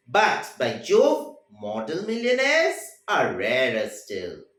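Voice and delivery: But, by Jove stretched very slow and loud, rising on Jove; emphatic punchline. Shown as a demonstration. Teacher delivering the story's final line, drawn out and emphatic. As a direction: draw out by Jove, then land model millionaires are rarer still. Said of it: "This is a very significant line".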